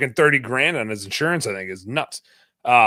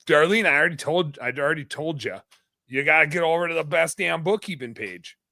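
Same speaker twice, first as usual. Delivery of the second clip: put-on Yooper accent. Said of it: "I said that in my best Yooper voice".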